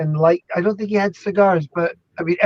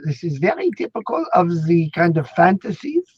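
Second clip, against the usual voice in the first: put-on Freud accent. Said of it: "the Freud would say".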